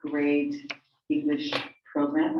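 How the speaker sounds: stretched out, pausing between words; real slow, halting stalling with long gaps; talking slowly. Real, not acted. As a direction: stall for time, one word at a time. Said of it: "I'm talking slowly".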